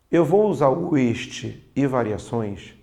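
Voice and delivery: slow, each word laid out for the class; slow deliberate teaching. Shown as a demonstration. Teacher to students, spelling out the rule, slowly. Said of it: "Vou falar bem devagar".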